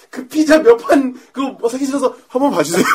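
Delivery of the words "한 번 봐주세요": raised, louder pleading voice; mock begging. Man begging out of buying pizza, mock pleading. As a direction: beg off, on the edge of laughter. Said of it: "무릎을 꿇었어".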